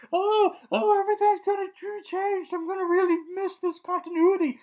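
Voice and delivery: very high, squeaky put-on voice; mock whimpering friend. Reviewer mocking friends fretting over the change, squeaky mock whimper. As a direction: wail it way up high in mockery. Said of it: "with friends being like".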